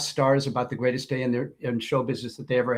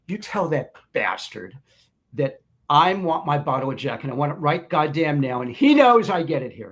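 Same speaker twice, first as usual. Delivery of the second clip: demanding rock star. Retold or imitated. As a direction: growl the order like a spoiled star. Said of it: "It's like".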